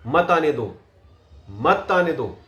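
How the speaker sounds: मत leaned on at the start of "मत आने दो"; stress on मत. Shown as a demonstration. Coach emphasizes after the pause, stress on मत. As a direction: hit मत firmly, let "आने दो" fall. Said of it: "उसको मैंने जोर दे के बोला".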